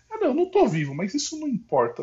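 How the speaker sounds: said high and offhand; casual high voice. Retold or imitated. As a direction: toss it off lightly. A quick acted exchange in a retelling.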